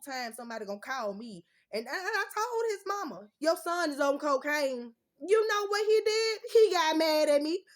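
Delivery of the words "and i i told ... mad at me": loud, much higher furious telling; angry yelling. Real, not acted. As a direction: shout it out in disbelief. Furious retelling of ex's reaction.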